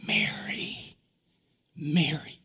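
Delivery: breathy whispered name, barely audible; tender whisper. Acted. Jesus softly calling Mary by name, whispered. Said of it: "And Jesus says".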